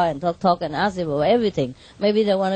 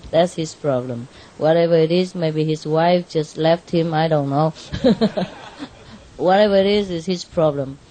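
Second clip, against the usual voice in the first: lower, calm self-talk; self-reassurance; 4 semitones lower than usual. Retold or imitated. Telling himself the driver's mood is not his, calmly lower. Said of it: "I said to myself".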